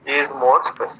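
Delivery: ordinary talk, nothing marked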